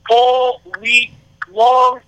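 hyped-up ring announcer style; big drawn-out podcast intro; show host introduction. Real, not acted. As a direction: build up the guest, drawing out key words. Hypes up and introduces guest.

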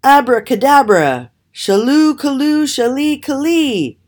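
put-on high, loud spell-casting old woman; croaked incantation. A narrator's reading. Old woman casting a spell on the raven, croaking it. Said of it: "croaked the old woman".

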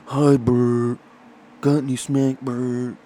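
lightly voiced junkie begging for drugs; junkie impression. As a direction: mumble it like a strung-out addict asking for a fix.

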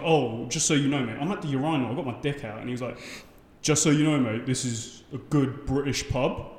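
a hint of a matey pub regular; lightly voiced bloke in the toilets.

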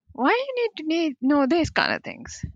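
high, puzzled asking; baffled question. Retold or imitated. New arrival questioning job form's race box, high and puzzled. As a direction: sound honestly baffled by the question. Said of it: "I was like".

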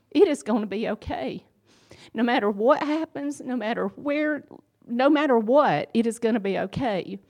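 God's reassurance swelling into a fervent declaration; fervent promise. Retold or imitated. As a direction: proclaim it with building conviction. God's promise proclaimed with fervour.

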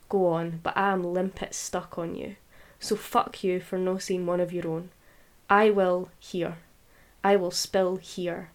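measured, deliberate poetry recital; defiant spoken-word poem; poem reading. Acted. Reads her poem aloud.

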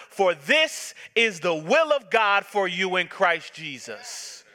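slow, lifted scripture reading; preaching the verse. Acted. Preacher to the congregation, reading the verse slowly. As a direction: read it out with weight, rising on each phrase.

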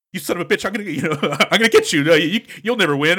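mock panicky. Villain threatening the hero on the phone, mock panicked bluster. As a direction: imitate a cocky villain losing his cool. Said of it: "He gets effectively panicky".

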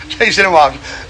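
real laughter pushing up the voice; laughing while telling. Real, not acted. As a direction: tell it cracking up. Amused story between bursts of laughter.

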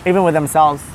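low, earnest guru-speak; mock spiritual podcast host. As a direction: play a solemn self-help host.

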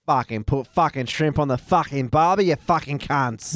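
lightly hammed-up Australian accent; a hint of an exaggerated Australian accent. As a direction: play a crude Aussie bloke in a mild Australian accent. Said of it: "Here's me being Australian".

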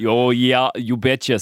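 put-on light Minnesota accent. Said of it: "with a North Minnesota accent".

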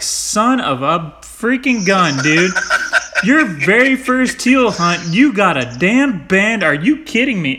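slow, emphatic mock outrage; retold astonishment, half laughing; amazed disbelief. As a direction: stretch it out, incredulous at a buddy's luck. Retold amazement at friend's banded bird.

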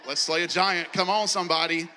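rally the troops to charge; excited rallying cry. Retold or imitated. Pumping himself up to step out.

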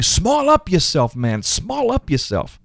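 slow, lightly Jamaican-accented mock cry, starting high; mock Jamaican scream. Inner voice telling people to shrink their dreams, mock Jamaican scream. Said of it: "that little voice inside is screaming".

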